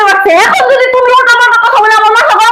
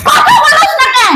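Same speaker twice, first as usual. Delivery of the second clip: slow shout; 4 semitones higher, slower than usual. Acted. Wife yells at silent servant.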